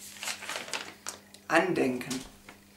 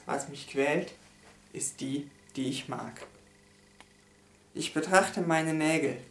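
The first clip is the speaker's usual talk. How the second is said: solemn, measured poem reading with pauses; poem recitation. Acted. Reading a poem about a lost love, solemn recitation. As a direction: recite a mournful poem line by line.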